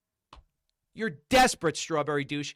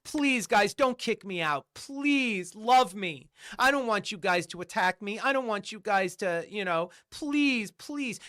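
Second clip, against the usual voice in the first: mock begging. Mocking a rival who begs to be accepted, exaggerated pleading. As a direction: put on a pleading act. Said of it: "you beg Strawberry Douche".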